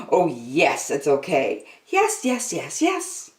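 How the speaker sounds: put-on a small girl daring herself to push one button; Angela talking herself into it. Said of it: "and said to herself".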